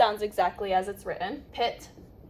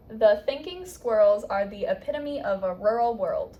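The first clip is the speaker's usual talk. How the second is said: neutral American accent. Shown as a demonstration. Teacher modelling the board phrase for a student, neutral American accent. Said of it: "read it with my neutral American accent".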